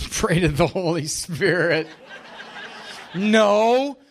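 laughing through the words; real laugh breaking into the line. Real, not acted. Speaker laughing at his own joke to the audience, laughing.

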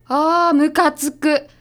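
drawn-out, slow irritated groan; annoyed. Acted. Kaori fumes after the detective insults her job, slow irritated groan. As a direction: let the annoyance drag out.

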